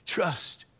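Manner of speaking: low and very soft; hushed solemn word. Real, not acted. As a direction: let the single word drop gently. Preacher lands the one word softly.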